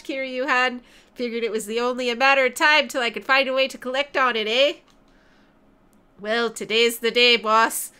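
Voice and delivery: lightly voiced Canadian character; Canadian accent. Canadian friend turning on his ally, light Canadian accent. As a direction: put on a hint of a Canadian accent. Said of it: "my Canadian friend".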